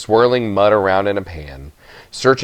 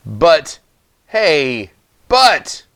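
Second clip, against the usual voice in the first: groaning protest; 6 semitones higher, much slower than usual. A narrator's reading. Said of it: "I groaned".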